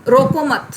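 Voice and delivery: "रोको मत" as one unit, falling, then stop; grouped before comma. Shown as a demonstration. Teacher demonstrating punctuation to students, pause after "रोको मत". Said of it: "फिर comma लग गया".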